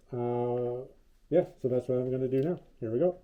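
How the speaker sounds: muffled through a respirator mask; talking through a mask. Real, not acted. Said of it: "have a muffled voice".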